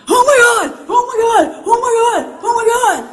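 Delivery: घबराकर ऊँची, ज़ोर की चीख़; ऊँची आवाज़ में बार-बार घबराहट से चिल्लाना; panicked cries. Retold or imitated. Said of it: "The pilot in command starts panicking".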